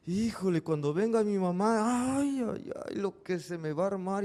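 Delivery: voz de niño asustado, más aguda; niño nervioso. Retold or imitated. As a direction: como un niño que teme el regaño de mamá. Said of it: "todo nervioso, preocupado". (niño preocupado por el vidrio roto, voz aguda y nerviosa)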